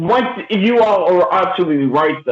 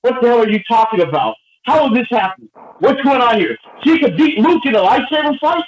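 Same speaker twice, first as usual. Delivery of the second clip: incredulous outburst, pitched up without real volume; retold yelling; 5 semitones higher than usual. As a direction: re-enact yelling at the movie screen in disbelief. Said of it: "I'm yelling in the movies like".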